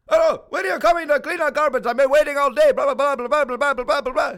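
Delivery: shrill phone-complaint parody; nagging caller. Retold or imitated. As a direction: squawk it like an impatient customer. Imitating angry customer on phone.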